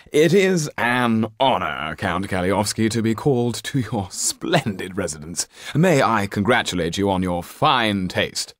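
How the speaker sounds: a nervous performer bowing and scraping; a hint of a groveling showman; fawning Topola. Topola flatters the Count.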